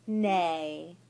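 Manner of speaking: loud playful horse whinny; horse neigh. Shown as a demonstration. Shows horse sound to toddler.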